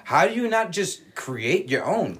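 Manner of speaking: high-pitched disbelieving outburst; incredulous. Retold or imitated. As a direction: react in exaggerated disbelief, voice jumping up. Acting disbelief at a retired DJ.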